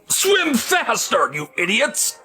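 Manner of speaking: slow, drawn-out coach's holler; hammed-up coach's scream. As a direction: yell it like a swim coach driving the team. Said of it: "the coach screaming".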